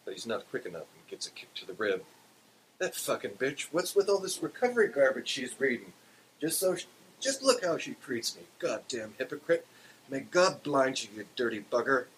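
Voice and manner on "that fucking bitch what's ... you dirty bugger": higher-pitched Irish brogue rant. A narrator's reading. Big Toe griping after a kick, Irish brogue. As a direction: curse her out in a thick Irish brogue. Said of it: "he says in his deepest Irish brogue".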